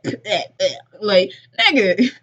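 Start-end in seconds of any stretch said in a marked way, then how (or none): 0.0-0.7 imitated "bleh" spitting noises; mock spitting out. Host mimicking the zombie spitting out the tongue, mock spitting. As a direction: act out spitting something out in disgust. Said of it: "he was like".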